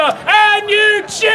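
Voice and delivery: drawn-out rallying call to the crowd; slow, rousing cue to cheer. Acted. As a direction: pump up the audience. Cueing the audience to cheer.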